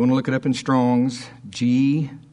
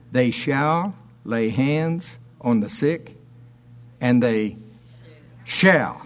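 declaimed scripture reading; 2 semitones higher than usual. Acted. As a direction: read the verses like a proclamation from the pulpit. Reads scripture aloud, declaiming.

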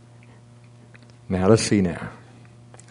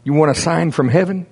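exasperated disbelief; 6 semitones higher than usual. Retold or imitated. Jesus retold, exasperated at Pharisees.

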